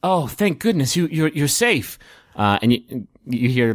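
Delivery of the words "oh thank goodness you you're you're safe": raised, fluttery relief; relieved Director. Acted. Director hears the boys are safe, raised relieved voice. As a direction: play a woman relieved to find her team safe. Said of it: "the director saying".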